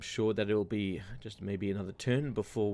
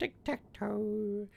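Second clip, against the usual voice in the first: odd put-on character voice, much higher pitch; 12 semitones higher than usual. Gamer repeats a phrase during a strategy game, in a put-on voice. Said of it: "Don't know why I did that voice".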